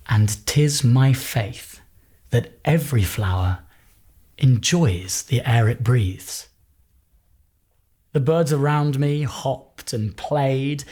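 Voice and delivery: slow, measured reading with long pauses; poem reading. Acted. Actor reads Wordsworth's poem aloud, slow and measured. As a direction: read the whole poem slowly and gently.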